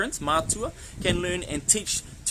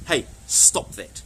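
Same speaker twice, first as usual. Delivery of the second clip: louder, lower, firm warning; parental telling-off; 3 semitones lower, 4 dB louder, much slower than usual. Shown as a demonstration. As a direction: rein in a child who went too far. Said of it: "listen to how I use it".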